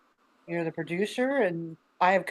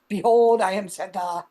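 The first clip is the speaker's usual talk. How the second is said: a touch of a booming, louder Santa announcing himself; grand Santa proclamation; 5 dB louder than usual. Acted. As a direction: proclaim it like a mock-majestic Santa. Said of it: "that's not my Santa voice".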